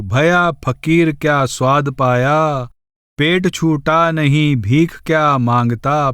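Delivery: slow, measured devotional verse; unhurried scripture-style verse reading; verse recitation. Acted. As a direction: recite the couplet slowly, drawing out the words.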